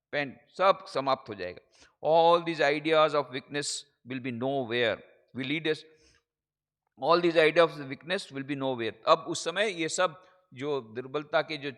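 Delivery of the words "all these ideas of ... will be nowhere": preaching. Acted. Declaims quotation in slow English.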